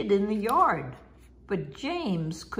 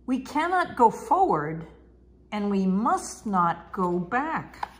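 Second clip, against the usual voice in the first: calling out, a little raised; called out. Acted. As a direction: call it to the passengers. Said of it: "His driver called out".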